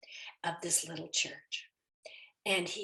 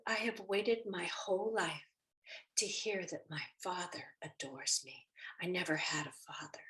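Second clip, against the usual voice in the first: hushed and moved; 6 dB quieter than usual. Retold or imitated. Woman moved by the prayer.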